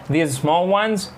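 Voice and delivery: "These small ones?" slow, rising high on "ones"; rising question. Shown as a demonstration. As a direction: question it back to clarify. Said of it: "tone of voice بتاعتك بتعلى شوية عشان clarification".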